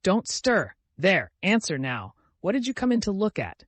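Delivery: loud, high, angry interrogation; roaring. A narrator's reading. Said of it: "I roared".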